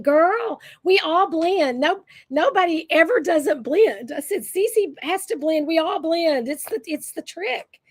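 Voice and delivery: high, sing-out grandmotherly reassurance; retold pep talk.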